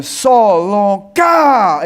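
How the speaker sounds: long drawn-out call across a distance; calling from afar. Retold or imitated. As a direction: hail him from a kilometre away. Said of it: "aí uma voz". (chamado arrastado de longe)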